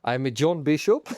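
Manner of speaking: attempted Scouse accent; John Bishop. Podcaster asked to do Scouse, attempted Scouse accent. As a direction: have a go at Scouse. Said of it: "do a Scouse accent".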